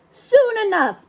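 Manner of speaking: high, loud pirate crew echo; pirate crew chorus. Acted. Pirate crew echoing their captain to the boy, loud. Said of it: "the crew repeated".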